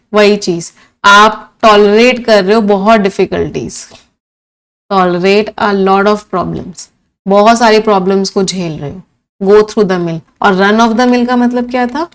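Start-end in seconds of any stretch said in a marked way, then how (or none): 4.9-6.9 very slow, stretched English words; slow gloss. Shown as a demonstration. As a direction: lay each word down for the students. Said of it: "teacher glossing in English". (धीरे-धीरे अंग्रेज़ी में समझाते हुए)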